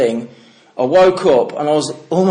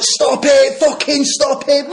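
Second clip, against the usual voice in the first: put-on kid screaming, crying; 11 semitones higher, slower than usual. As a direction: scream it like a wronged kid in tears. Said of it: "he's bawling his eyes out".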